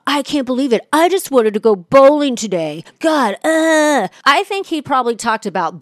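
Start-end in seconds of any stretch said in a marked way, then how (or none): 0.1-4.1 whiny rant. Retold or imitated. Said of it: "won't stop talking about".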